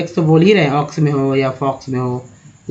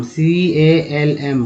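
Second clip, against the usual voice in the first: slow spelling; much slower than usual. Shown as a demonstration. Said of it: "एलएम में लेते हैं काम".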